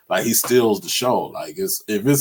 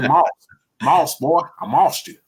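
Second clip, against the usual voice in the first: higher, louder trash-talk call; mock taunt; 7 semitones higher, 5 dB louder than usual. Bragging about catching over Dante, playful taunt. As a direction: gloat at the defender. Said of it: "And I said".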